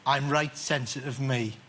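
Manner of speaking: slow, low mock-tender Geordie line; slow Geordie croon, lightly hammed; mock sensitive Geordie. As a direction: ham up being sensitive in Geordie. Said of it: "a track on one of my DVDs that just says".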